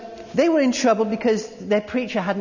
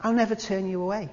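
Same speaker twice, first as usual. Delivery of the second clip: softer, lingering on never; tender promise; 2 semitones higher, 5 dB quieter than usual. Shown as a demonstration. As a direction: reassure the listener gently. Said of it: "making a point forcibly".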